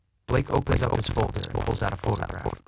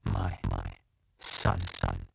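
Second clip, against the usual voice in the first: broken, halting; 14 semitones lower, 5 dB quieter, slower than usual. Acted.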